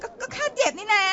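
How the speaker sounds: crying. Acted. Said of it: "นี่เอ็งร้องไห้เหรอเนี่ยฮะ".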